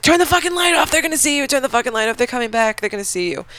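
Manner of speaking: high, urgent mock plea; frantic hushed girl. Podcaster voicing the scared girl telling Eve to kill the light, high pitched. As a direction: squeal it at the flashlight holder.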